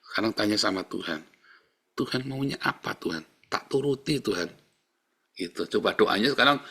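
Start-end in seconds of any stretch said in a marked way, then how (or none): 1.9-4.5 soft, submissive prayer; resigned surrender. Shown as a demonstration. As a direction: ask God quietly, ready to obey. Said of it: "Pasrah, saudara". (doa pasrah yang lembut)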